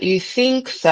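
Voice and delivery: prim British lilt; posh British accent. Retold or imitated. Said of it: "people that they talk like".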